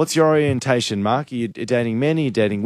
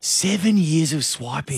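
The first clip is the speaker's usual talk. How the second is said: drawn-out, pondering echo; slow, weighty repeat; 3 dB quieter, slower than usual. Real, not acted. Host echoing the caller's seven years of swiping, slow and weighty. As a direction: repeat it slowly, letting the number sink in. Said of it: "when you say it like that".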